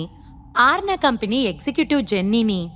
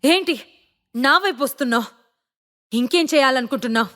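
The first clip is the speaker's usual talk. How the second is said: threatening; 4 semitones higher than usual. Acted. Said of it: "భయపెట్టాలని చూశాడు జోయల్".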